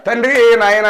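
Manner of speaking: mock wailing. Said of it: "అని నా గురించి ఎందుకు ఏడుస్తారు".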